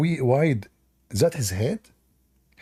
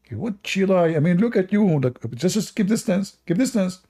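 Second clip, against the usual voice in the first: higher teasing warning; mock retort; 5 semitones higher than usual. The Christian friend tells Abdul to keep distance, high teasing. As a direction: shoo him away playfully. Acted back-and-forth argument.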